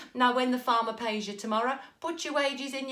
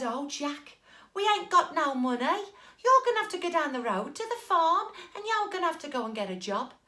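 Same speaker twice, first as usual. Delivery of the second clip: lightly voiced mum, a touch higher; mum's worried plea; 6 semitones higher than usual. Mum telling Jack to find work, lightly voiced. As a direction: mum fretting gently to her son.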